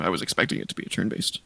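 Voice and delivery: talking through hiccups; hiccupy, interrupted speech. Real, not acted. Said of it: "Man, I have the hiccups".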